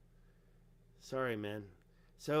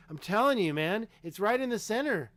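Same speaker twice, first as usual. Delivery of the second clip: higher, louder insistence; excited insisting; 5 semitones higher, 3 dB louder than usual. Real, not acted. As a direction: press the point, higher and louder. Insists to chat.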